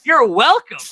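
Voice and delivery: high, proud mock boast; mock triumphant. Bunky showing housemates the toaster's glory, mock triumphant. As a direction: play up the toaster owner's big reveal. Bunky gloating over new toaster, acted quote.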